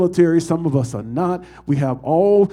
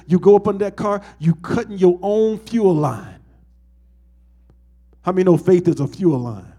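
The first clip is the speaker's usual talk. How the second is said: ordinary talk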